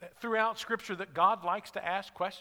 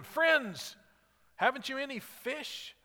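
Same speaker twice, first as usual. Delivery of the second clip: higher, raised call to a distant boat; called out across water; 6 semitones higher, slower than usual. Retold or imitated. Jesus calling to the fishermen from a hundred yards away, higher raised call. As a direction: hail them from the shore. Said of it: "he called out to them".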